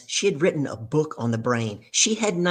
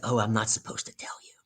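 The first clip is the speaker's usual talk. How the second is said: hushed, secretive whisper; confiding whisper; 5 semitones lower, 5 dB quieter than usual. Retold or imitated. Telling the other speaker a secret, whispered. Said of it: "I kinda whispered".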